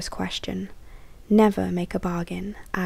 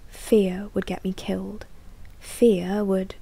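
soft eerie whisper. Acted. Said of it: "a soft voice whispered in my ear".

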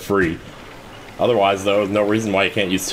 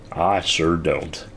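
whispering; much slower than usual. Real, not acted. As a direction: breathe it out as an aside. Whispered aside.

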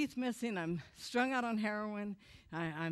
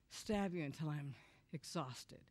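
much lower and softer, muttered rage; seething quiet; 6 semitones lower, 8 dB quieter than usual. Retold or imitated. Son recalling thoughts about his mother, quiet seething. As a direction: let the rage sink into a near whisper. Secret rage toward mom.

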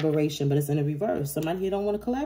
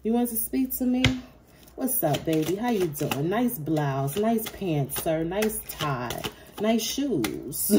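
mock sweet greeting; 3 semitones higher, much slower than usual. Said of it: "Tell these motherfuckers".

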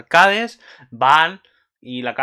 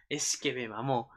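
gushing; 2 semitones lower, 12 dB quieter, slower than usual. Real, not acted. Gushing, repeats it slowly for effect.

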